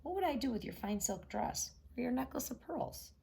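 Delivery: a hint of a scornful frog. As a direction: frog refusing the princess's gifts. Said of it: "said the frog".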